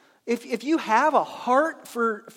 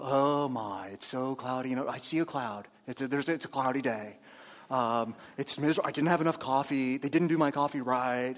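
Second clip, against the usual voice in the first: much lower, much softer weary groan; dragging grump; 8 semitones lower, 3 dB quieter than usual. Retold or imitated. Pastor mimics a miserable morning person, low and groaning. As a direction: sag like you hate mornings. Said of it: "you're dragging out".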